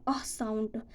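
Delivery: "ah" held as a separate open vowel; extra ah sound. Shown as a demonstration. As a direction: sound out "ah" by itself. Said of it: "there is a, an extra".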